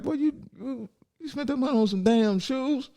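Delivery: high, incredulous dad voice scolding. Retold or imitated. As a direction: play the shocked father. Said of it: "and he was like".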